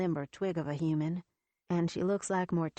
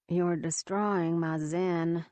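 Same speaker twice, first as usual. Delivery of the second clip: called out; 4 dB louder, slower than usual. Acted. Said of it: "Lexi calls".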